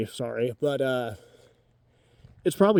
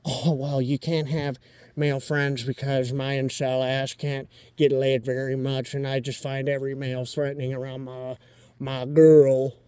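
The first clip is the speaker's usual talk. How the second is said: mock jealous incel; 2 semitones lower, 3 dB quieter than usual. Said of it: "to sit there and say".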